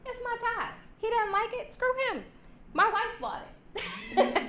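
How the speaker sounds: high, breezy shrug-off; man unbothered by a comment on his tie; carefree guy. Retold or imitated. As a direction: brush it aside lightly. Mike shrugs off the insult.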